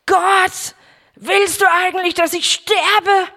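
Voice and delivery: crying out to God. Retold or imitated. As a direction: hurl the question up at God in despair. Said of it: "wirklich Gott angeschrien".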